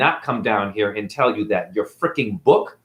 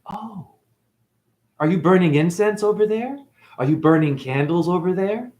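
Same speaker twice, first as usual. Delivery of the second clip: higher, mock-surprised gotcha question; sarcastic comeback; 5 semitones higher than usual. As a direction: needle them with fake surprise.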